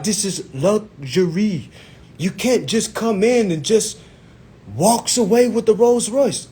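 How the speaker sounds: put-on slow, high, insistent African-accented salesman; imitated African salesman. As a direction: stretch each phrase in a mock African accent. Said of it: "his African accent just went away".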